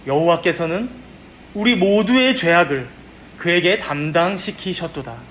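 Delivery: measured, solemn scripture recitation; scripture reading. Acted. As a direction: read the verses out deliberately, phrase by phrase. Reads scripture aloud in prayer.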